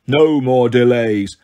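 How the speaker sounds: slow, heavy monster voice; slow monster demand. Acted. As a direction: drag out each word like a giant. Cyclops demands.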